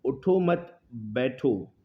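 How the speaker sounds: slow, even read-out of an ambiguous sentence; neutral, measured example reading; read without comma. Shown as a demonstration. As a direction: say it slowly with no clear break. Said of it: "एक sentence लिखकर दिखाता हूँ".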